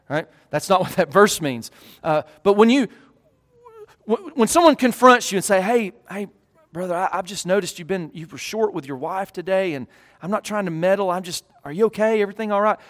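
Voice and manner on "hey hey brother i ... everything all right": gentle concern. Pretend. Gentle confronting brother.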